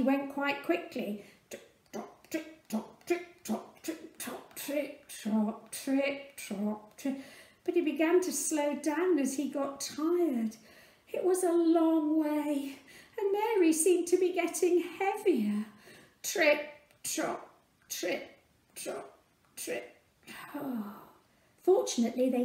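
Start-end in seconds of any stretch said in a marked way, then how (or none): 1.5-7.2 whispered trip-trop rhythm; quiet clip-clop rhythm; soft hoofbeats. Acted. Donkey hoof sounds. 16.2-20.0 fading, slower trip-trop; weary clip-clop dying away; slowing hoofbeats. Acted. Tired donkey slowing. 20.3-20.9 soft weary exhale; drained quiet sigh; tired sigh. Acted. Tired donkey.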